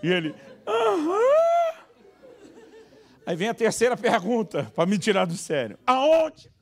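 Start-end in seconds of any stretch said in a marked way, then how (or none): 0.7-1.8 very high, loud whimpered aham; whimpering child. Retold or imitated. Son answering his mother with a very high whimper. 5.9-6.5 much higher, louder mother voice; mother asking. Retold or imitated. Wife asking the son where it hurts, much higher and louder.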